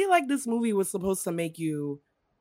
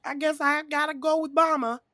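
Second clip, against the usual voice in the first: put-on high-pitched little baby voice; high, helpless mock-baby plea; helpless babies; 9 semitones higher than usual. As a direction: play a lost baby, pitched way up. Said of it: "babies are like".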